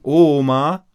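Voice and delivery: loud, high call to Grandma. A narrator's reading. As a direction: holler through the house for Granny. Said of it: "rief Paul". (laut nach Oma rufen)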